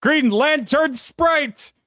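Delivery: high, slow grand announcement; magical girl announce. Pretend. Announcing with flourish.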